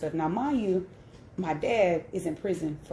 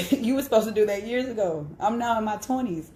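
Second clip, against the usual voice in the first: heated; 4 semitones higher than usual. Real, not acted. Daughter fuming at her father's late Bible advice, heated and raised. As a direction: let the indignation rise as you talk. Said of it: "it's heated now".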